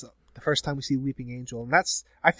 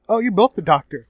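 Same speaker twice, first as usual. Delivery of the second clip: higher, louder mock amazement; mock surprised reaction; 7 semitones higher, 7 dB louder than usual. Onlooker reacting to two American Doctors, mock surprised. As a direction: put on an exclaiming, incredulous voice.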